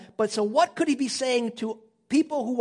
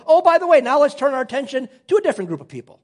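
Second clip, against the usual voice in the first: breezy mock aside; 4 semitones higher, 6 dB louder, faster than usual. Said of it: "He doesn't go".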